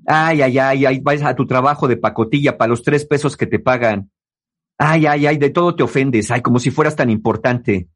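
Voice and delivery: a hint of scornful mockery; mocking scorn. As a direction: belittle them with light contempt. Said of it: "haciendo burlas de". (burla despectiva apenas actuada)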